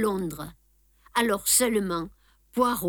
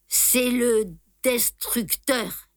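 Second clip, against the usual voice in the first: breathed out; 3 semitones higher, slower than usual. Acted. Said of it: "exhala le pauvre homme dans un dernier effort".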